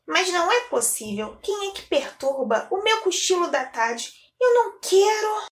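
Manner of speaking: put-on grumpy girl woken from a nap; a child whining, rising to a high complaint; annoyed little girl. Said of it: "Maria quem respondeu". (menina irritada e resmungona)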